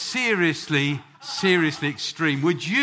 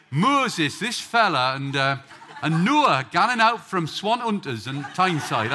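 a touch of Geordie, played for laughs; Geordie accent; slower than usual. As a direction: quote it in light Geordie dialect. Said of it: "Have you tried the Geordie Bible?".

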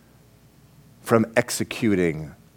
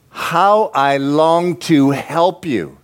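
slow, drawn-out yearning; God's longing; 5 semitones higher, much slower than usual. Acted. God longs to help Israel, slow and yearning. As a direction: stretch the words out, a little higher.

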